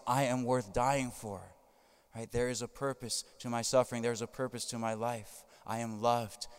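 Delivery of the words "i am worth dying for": prayer. Shown as a demonstration. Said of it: "You look at the cross and you say".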